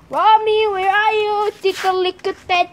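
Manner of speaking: high, sing-out call for a cat; calling out to pet. Pretend. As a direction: coax the hidden kitty out with a high call.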